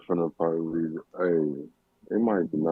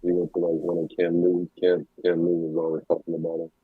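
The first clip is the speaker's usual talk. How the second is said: muffled mic sound; like talking through a wall. Real, not acted. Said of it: "Your mic sound like it's muffled".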